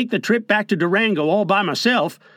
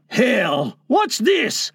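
shout; 2 semitones higher, much slower than usual. Acted. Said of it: "he began to shout".

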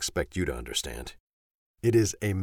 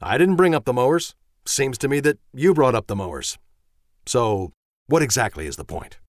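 high, loud, exasperated tirade; wife shouting, high and sharp; furious wife; 10 semitones higher, 7 dB louder than usual. Acted. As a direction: let the anger boil over at him. Voices the wife Susan.

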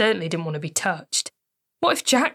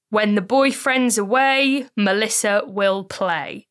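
slow, louder sing-song tabloid taunt; mocking headline; 3 semitones higher, 5 dB louder, slower than usual. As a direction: read it like a sneering headline.

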